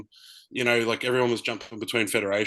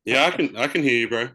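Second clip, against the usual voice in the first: loud; 4 semitones higher, 5 dB louder, faster than usual. Real, not acted. Checking audio on a bad call.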